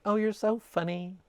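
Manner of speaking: high, slow, sweet mock flirt; flirty giggly woman voice.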